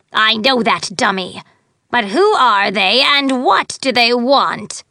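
sharp, scornful witchy fairy; haughty fairy voice. Acted. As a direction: talk down to him, impatient. Fairy queen scolding the skull.

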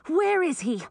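sharp, high demand. A narrator's reading. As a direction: insist on an answer. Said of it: "demanded Millie".

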